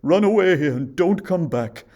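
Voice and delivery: very loud, rising, frantic warning; urgent huntsman. A narrator's reading. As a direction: urge her to flee at once. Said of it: "said the huntsman".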